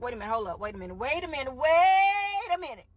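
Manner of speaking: building from muttered to loud crying wait; Pharaoh stalling. Retold or imitated. Pharaoh realizing his loss, rising to a cry. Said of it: "Pharaoh was like".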